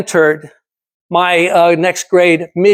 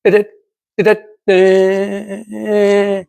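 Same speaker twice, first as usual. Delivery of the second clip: EKG flatlining; much slower than usual. Retold or imitated. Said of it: "the E K G machine's going".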